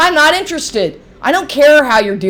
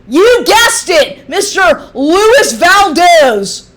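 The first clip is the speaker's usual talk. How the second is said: slow sarcastic reveal; mocking; 4 semitones higher, 4 dB louder, much slower than usual. Real, not acted. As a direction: drag it out mockingly.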